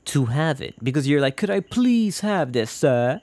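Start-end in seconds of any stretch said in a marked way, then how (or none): 1.4-3.2 high-pitched pleading beggar; humble begging. Acted. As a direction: beg meekly, high, like a poor underling. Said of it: "small certain sense of humiliating yourself".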